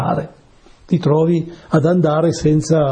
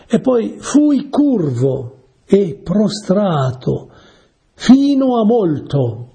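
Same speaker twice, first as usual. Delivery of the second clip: slow, raised and drawn out, like reciting a psalm; solemn scripture reading; 6 semitones higher, much slower than usual. Acted. Preacher reads the psalm to his listeners, slow and solemn. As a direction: lean into each word of the verse, slowly.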